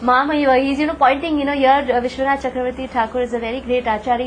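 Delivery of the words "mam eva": "Mam eva" said with firm stress; emphatic. Retold or imitated. Krishna speaking to the one who surrenders, emphatic. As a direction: lean firmly on "Mam eva". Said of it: "Krishna is emphatically saying".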